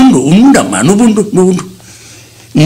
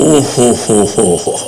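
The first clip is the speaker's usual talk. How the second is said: drawn-out sarcastic oho; 11 semitones lower, 6 dB quieter, much slower than usual. Acted. Grandfather reacts to couple's quarrel.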